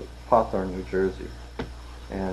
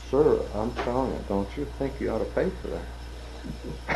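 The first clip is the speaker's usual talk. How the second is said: insistent demand; 3 semitones higher, 6 dB quieter than usual. Retold or imitated. Armed customer insists on payment.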